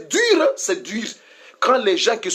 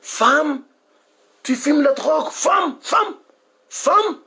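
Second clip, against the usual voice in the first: retold shout; 4 semitones higher, slower than usual. Preacher recalling calling out to a woman smoking drugs, a retold shout. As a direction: call after her in alarm, raising the voice. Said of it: "Moi, j'ai dit, femme".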